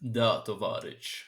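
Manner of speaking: slow, mock Russian greeting; slow playful Russian-accented reply. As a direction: put on a Russian accent, drawn out. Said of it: "talk only with Russian accent".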